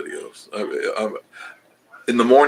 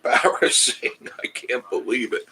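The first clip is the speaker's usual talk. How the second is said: put-on voice of gawking passers-by, slow and drawn out; a slow, hammed-up mock embarrassment with a laugh; mock embarrassed bystander; 2 semitones higher than usual. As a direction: play a scandalised onlooker, lightly. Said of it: "people are looking and going".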